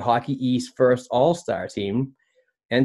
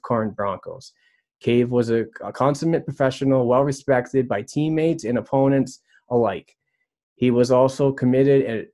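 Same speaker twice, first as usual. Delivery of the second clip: slightly raised formal read-aloud voice; reading a statement. Acted. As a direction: read it out like an official announcement. Reads the club's official statement aloud.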